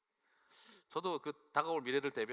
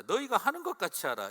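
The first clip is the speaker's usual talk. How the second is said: 것 stressed, louder and higher; emphatic repeat; 7 semitones higher, 7 dB louder than usual. Shown as a demonstration. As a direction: hit 것 hard and fall at the end. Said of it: "자". (더 크고 높게 '것'을 강조)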